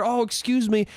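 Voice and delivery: mildly polite excuse me; politer. Shown as a demonstration. Man asking a drunk woman to move, mildly polite. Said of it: "I could have been politer".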